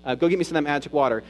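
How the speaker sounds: mocking, scornful retort; a touch of sarcasm, fast at the end; sarcastic. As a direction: throw it back at him with a sneer. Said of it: "it's kinda sarcastic".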